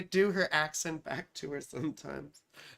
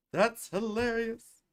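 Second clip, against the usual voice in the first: slow, stretched emphasis on each word; drawn-out reaction; 3 semitones higher, slower than usual. Real, not acted. Host reacting to a chat comment, slowly drawn out. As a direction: draw it out with full voice.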